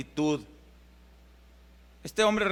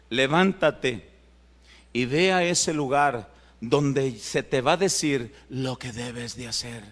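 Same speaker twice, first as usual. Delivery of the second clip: slow divine command; 5 semitones lower than usual. Acted. Voicing God's command slowly.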